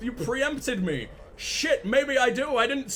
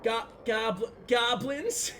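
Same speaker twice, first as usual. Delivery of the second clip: a hint of a Southern drawl on goblins; mock Southern accent; 3 semitones higher, slower than usual. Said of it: "how the fuck would you say goblins".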